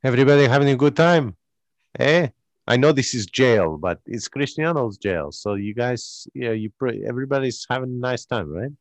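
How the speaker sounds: Cristiano Ronaldo voice. Acted. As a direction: boast it like the jail owner. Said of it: "Cristiano Ronaldo walks in".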